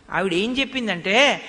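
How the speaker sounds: ordinary delivery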